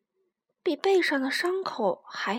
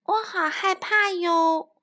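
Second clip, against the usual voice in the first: put-on scared baby dinosaur; 6 semitones higher, slower than usual. Frightened baby clings to tyrannosaurus.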